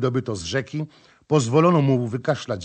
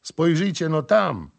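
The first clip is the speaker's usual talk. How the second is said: pleased call; 5 semitones higher, 3 dB louder than usual. Acted. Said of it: "zawołał znowu zadowolony rybak".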